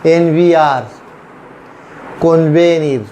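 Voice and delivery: एन वी आर and कॉन्वेनिर with V; V after N. Shown as a demonstration. Teacher giving learners examples, कॉन्वेनिर with V after N. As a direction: model कॉन्वेनिर as kon-VE-neer. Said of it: "फिर वी की तरह pronounce करता है".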